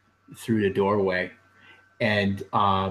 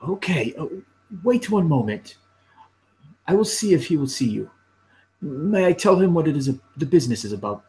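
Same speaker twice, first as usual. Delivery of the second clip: higher, officious clerk voice; lightly voiced officious clerk; prim clerk Dudo; 6 semitones higher, faster than usual. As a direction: play the nosy clerk politely.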